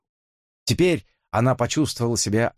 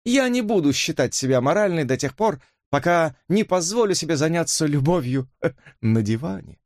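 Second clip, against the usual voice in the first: much higher, cheeky with a laugh; provocative Elisa; 8 semitones higher than usual. Acted. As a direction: shock them on purpose. (дерзкая дама со смешком)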